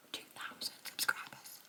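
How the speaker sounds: drops to a stunned near-whisper; awed hush. Real, not acted. To her viewers, repeating the milestone in a hushed, amazed near-whisper. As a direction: say it again under your breath, amazed.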